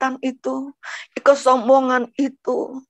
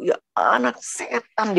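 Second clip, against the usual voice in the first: angry father; slower than usual. Retold or imitated. Father curses daughter before hitting her, imitated slow anger. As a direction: imitate a father's restrained fury, stretching the words.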